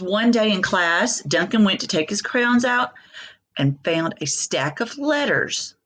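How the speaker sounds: slow, lively storybook reading; reading to children. Acted. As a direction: read it slowly to little ones, lingering on each line. Reading picture book aloud to class.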